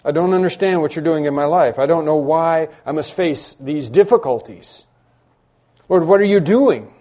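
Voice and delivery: cry out. Retold or imitated. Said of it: "So we cry out".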